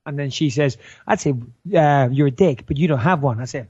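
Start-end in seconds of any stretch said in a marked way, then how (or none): 1.1-3.4 lower-pitched put-on American voice; British speaker trying an American accent. Shown as a demonstration. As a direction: audition line, American style. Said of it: "your line in the American accent".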